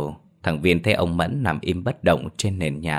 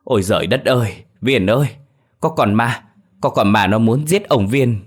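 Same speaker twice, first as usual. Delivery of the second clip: higher, louder terrified outcry; terrified cry; 4 semitones higher, 5 dB louder than usual. Acted. Old man waking to his grandson, terrified. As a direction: scream out about the ghost. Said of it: "thì ông Mẫn rú lên".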